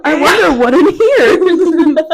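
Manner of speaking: slow, loud zombie moan. Pretend. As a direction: moan like an undead. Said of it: "cod zombie sound".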